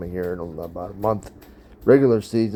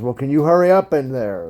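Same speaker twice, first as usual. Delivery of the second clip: louder, higher, pushy; impatient hurry-up; 5 semitones higher, 5 dB louder than usual. Retold or imitated. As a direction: rush him through the door. Impatient guy outside stall.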